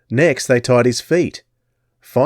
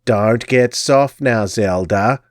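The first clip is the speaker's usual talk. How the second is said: screeching crone; slower than usual. Acted. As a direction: screech a warning. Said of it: "the gypsy screeched".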